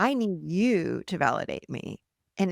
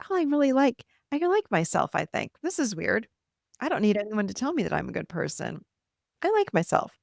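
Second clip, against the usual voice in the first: surprised delight; 3 semitones higher than usual. Retold or imitated. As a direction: sound amazed to like yourself. Voices surprised new self-liking.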